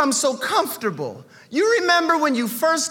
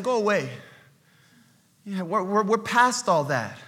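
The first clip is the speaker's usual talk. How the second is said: Esther brushing him off; 7 semitones lower, 5 dB quieter than usual. Acted. Esther voiced dismissive in sermon.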